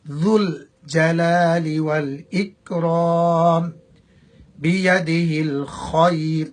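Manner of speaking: slow, chant-like Arabic recitation; melodic recitation. Shown as a demonstration. Teacher reciting the whole kalima for students to repeat, chant-like. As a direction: chant the kalima slowly for them to follow.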